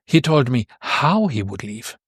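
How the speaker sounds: "how" lifted and emphasized mid-sentence; stress on HOW. Shown as a demonstration. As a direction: lean on the word "how". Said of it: "this how is emphasized".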